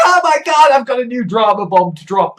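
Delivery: a touch of breathless gossipy excitement on oh my God; mum's dramatic voice. Retold or imitated. Mum bursting in with news, mock excited. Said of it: "my mum will just occasionally turn up and be like".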